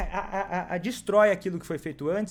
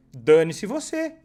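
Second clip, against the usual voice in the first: mock angry snap; 7 dB louder, slower than usual. Shown as a demonstration. Imagined dismissive reply.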